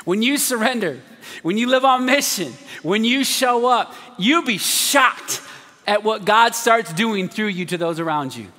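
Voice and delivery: slow, emphatic preacher cadence; rising sermon build; preaching. Acted. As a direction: drive each clause home from the pulpit.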